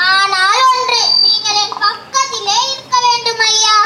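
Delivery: a gardener sniffling as he begs Birbal; tearful gardener. Acted. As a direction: plead through tears. Gardener begs Birbal stay near.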